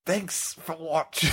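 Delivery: slow, soft, high accent attempt; half-hearted Irish accent. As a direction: drag it out in a faltering Irish lilt. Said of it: "me trying to do an accent".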